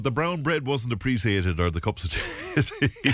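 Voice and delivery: words giving way to laughter; amused, laughing. Real, not acted. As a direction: try to apologise while the laugh breaks out. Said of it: "I'm sorry for laughing".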